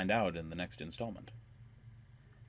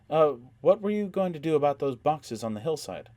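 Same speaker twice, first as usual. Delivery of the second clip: put-on higher, whiny girlish voice; near whine; 7 semitones higher, 6 dB louder than usual. A narrator's reading. Doria asks the group, almost whining. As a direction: whine the question a little. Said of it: "Doria's voice was almost a whine".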